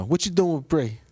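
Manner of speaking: clip re-enactment. Retold or imitated. Co-host recalls favourite clip, mimicking. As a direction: quote the clip in a put-on voice.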